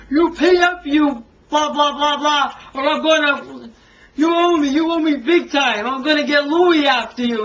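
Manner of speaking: mock a thug demanding his money; retold mobster yell. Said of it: "people shouting and yelling".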